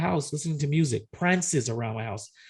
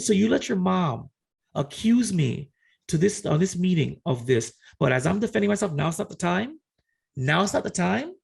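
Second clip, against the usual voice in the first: higher, indignant retold challenge; affronted, rising protest; getting irate; 4 semitones higher than usual. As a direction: build to disbelieving questions, retelling an argument. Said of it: "this is when I started getting irate".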